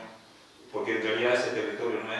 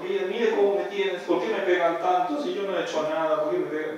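a hint of a victim's whine; girl's plea; 6 semitones higher, 4 dB louder than usual. Possessed girl complains again. (queja de niña, levemente imitada)

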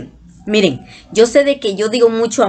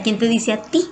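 his tone. Retold or imitated. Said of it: "con ese tono".

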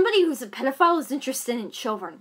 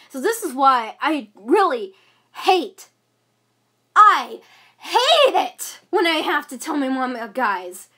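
real frustration, louder and pushed; angry rant; 3 dB louder than usual. Real, not acted. Teen vents to camera about telling her mom, heated rant. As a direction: vent it, fed up. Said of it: "putting on a big show".

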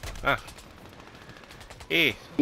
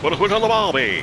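cartoon Australian accent; 7 semitones higher, 5 dB louder than usual. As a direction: ham up an Aussie barbecue line. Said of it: "Australian accent's cool".

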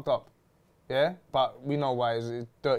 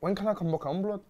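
imitating pestering guest; 5 semitones higher than usual. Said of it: "That's what he was saying".

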